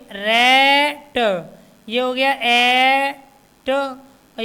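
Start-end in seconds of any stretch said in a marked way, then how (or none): 0.1-1.2 slow demo word. Shown as a demonstration. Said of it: "R A T को क्या बोलोगे?".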